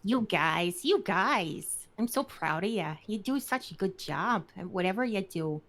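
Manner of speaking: proud Midwestern mom praising a drawing. Acted. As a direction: gush like a mom at the fridge. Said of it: "as a Midwestern mom".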